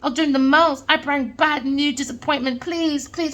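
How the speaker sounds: a hint of a sobbing beggar; mock begging. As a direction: imitate her pleading for mercy, half-hearted. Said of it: "Look at her crying".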